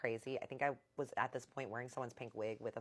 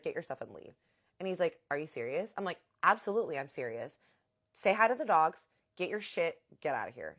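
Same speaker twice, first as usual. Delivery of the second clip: loud snapped commands to leave; angry orders; 6 dB louder than usual. Retold or imitated. Wife telling husband to get out, loud and angry. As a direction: throw him out.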